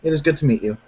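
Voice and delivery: put-on heavy Middle Eastern accent. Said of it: "extremely heavy Middle Eastern accent".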